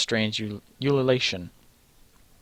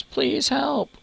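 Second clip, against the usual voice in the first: put-on high pleading child. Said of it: "yells Perocles".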